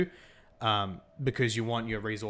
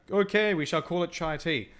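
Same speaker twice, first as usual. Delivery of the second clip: put-on hammy old-fashioned English, higher and louder; stuffy Englishman; 7 semitones higher, 6 dB louder than usual. English settling on the name chai tea, hammy posh voice. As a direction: pronounce it like a pompous gentleman.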